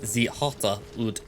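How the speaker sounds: slow mock-German accent. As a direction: put on a playful German accent, drawn out. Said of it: "I'm doing a German accent".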